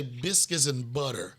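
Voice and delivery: slow, low, savoring delivery; Paula Deen. Retold or imitated. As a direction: linger on it, infatuated impression. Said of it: "the way Paula Deen say".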